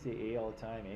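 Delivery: light Canadian accent, tagging eh on the end; mock Canadian accent. Shown as a demonstration. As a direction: softly tack a Canadian eh onto the question. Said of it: "that's what a Canadian sounds like".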